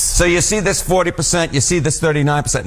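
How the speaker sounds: put-on playful New York accent. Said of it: "Now I really am leaning into the New York accent".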